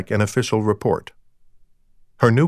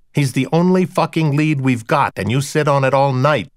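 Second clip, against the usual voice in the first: snarling; 3 semitones higher than usual. Acted. Deb snarls at her partner for sitting on the lead. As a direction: bite into every word, furious at him. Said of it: "Deb snarled".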